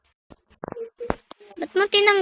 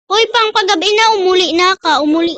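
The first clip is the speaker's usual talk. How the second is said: loud calling out; 5 dB louder than usual. Real, not acted. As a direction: call out to them to go home. Telling friend to go home.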